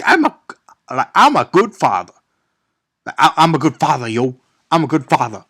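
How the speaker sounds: hammed-up celebrity impression; Mark Wahlberg. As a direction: insist on it like a parody movie dad. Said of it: "oh that's a great impression".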